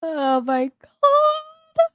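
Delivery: slow drawn-out disbelieving groan; exasperated. Real, not acted. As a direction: stretch it out in disbelief. Reacting in disbelief while laughing.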